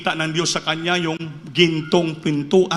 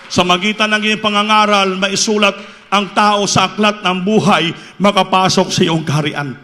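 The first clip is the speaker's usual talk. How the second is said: louder, preaching-style praying; fervent prayer; 2 semitones higher, 4 dB louder than usual. Retold or imitated. Birmoy prays after his dream.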